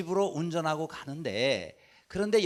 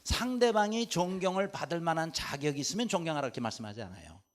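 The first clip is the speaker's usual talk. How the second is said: ordinary delivery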